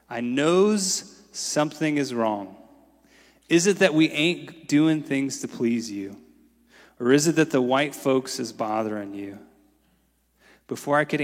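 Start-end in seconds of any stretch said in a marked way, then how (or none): 0.1-9.4 put-on old woman's dialect. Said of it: "she said".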